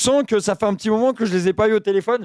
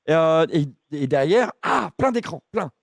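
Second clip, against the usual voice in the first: low, halting, lonely oddball; dopey confused voice; 7 semitones lower, 4 dB quieter than usual. Acted. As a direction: play a muddled lonely man rambling. Keeps confused caller character.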